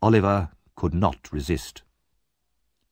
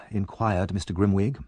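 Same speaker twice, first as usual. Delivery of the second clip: ordinary delivery, nothing marked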